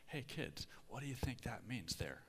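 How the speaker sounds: put-on hushed, half-whispered question to the kids; soft parent's question. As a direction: lean back and softly ask the kids. Parent quizzing kids in car.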